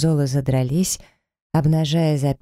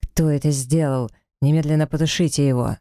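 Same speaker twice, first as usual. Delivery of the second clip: furious, through gritted teeth. Acted. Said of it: "с яростью процедил сквозь зубы".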